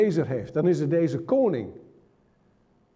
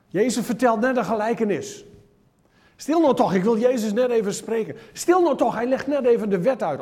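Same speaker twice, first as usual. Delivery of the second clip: pious scolding; 5 semitones higher than usual. Acted. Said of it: "Oh, zo vroom allemaal".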